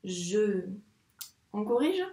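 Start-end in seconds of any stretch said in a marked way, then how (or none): 0.0-0.7 "Je" drawn out, both sounds held; long j into a long e; dictated syllable. Shown as a demonstration. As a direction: sound out "Je" slowly for a pupil. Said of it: "la syllabe je".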